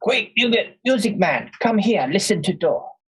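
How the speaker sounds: very high, slow, drawn-out yell. Voicing a character calling someone over to listen to a door: yelling in character. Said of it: "Quick yells out".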